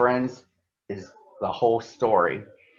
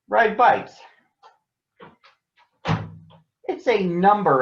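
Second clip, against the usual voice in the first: a gentle doctor explaining to children, only lightly voiced; kindly doctor; 3 semitones higher than usual. Doctor explains body systems to cubs.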